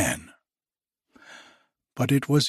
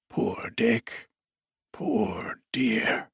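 tender whisper; 4 dB quieter, much slower than usual. Acted. Scrooge fondly recalls his friend.

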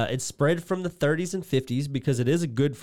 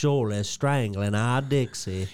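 slow, lightly voiced Gilbert; slower than usual. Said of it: "this part right here".

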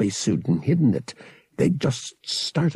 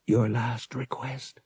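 choked; 5 dB quieter, slower than usual. A narrator's reading. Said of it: "He choked".

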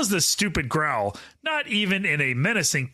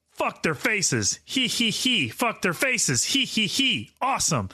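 mock dopey guy; 4 semitones higher, slower than usual. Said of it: "always repeats someone's joke".

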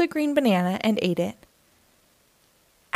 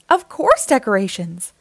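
chirpy; 3 dB louder than usual. Acted. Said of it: "chirped Oxpecker".

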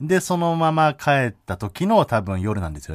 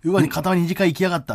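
grumbling paparazzo; 6 semitones higher than usual. Retold or imitated. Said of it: "とか思ってんのかな".

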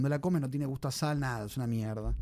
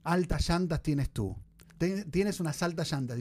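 slow slang demo; slower than usual. Shown as a demonstration. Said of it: "En qué situación utilizarías la palabra alta".

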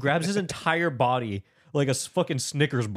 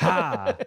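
higher, short "ha" on a swing; mock effort shout; 5 semitones higher than usual. Podcaster mimicking actor's one-fourth swing, mock effort shout. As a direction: imitate a little hopping hit. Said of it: "it's like a ha".

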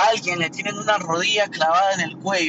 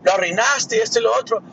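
condescending clerk; 7 semitones higher, 4 dB louder than usual. Retold or imitated. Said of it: "el otro personaje me sale así como que".

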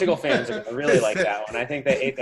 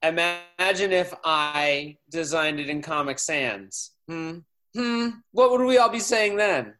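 mock scold. Mocking himself as critics.

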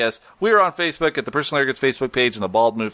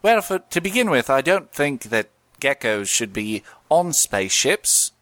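lightly voiced Cockney gecko; Geico Gecko voice. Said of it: "Geico Gecko".

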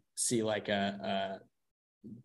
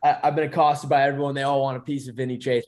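fast, louder mock Boston agent; Boston accent; 2 semitones higher, 4 dB louder, faster than usual. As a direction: rattle it off with a Boston twang. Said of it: "threw in a Boston accent there".

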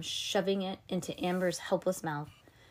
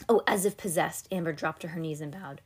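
usual speaking voice

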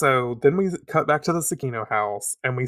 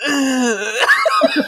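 high, mock-pained grunts; imitated sick groan; 12 semitones higher, 7 dB louder than usual. Host imitating her friend getting out of bed, imitated sick groan. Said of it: "the sound that you made".

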